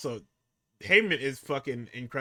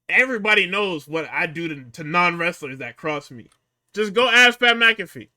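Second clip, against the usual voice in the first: mock threatening promo, building louder; retold threat; 2 semitones higher, 6 dB louder than usual. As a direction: act out the wrestler turning on him. Acting out wrestler turning on opponent.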